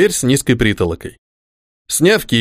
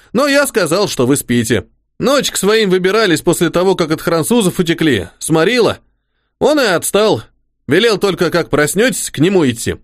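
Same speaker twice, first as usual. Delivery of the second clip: simple soldier voice; 4 semitones higher than usual. Acted. The orderly Pakhom speaking.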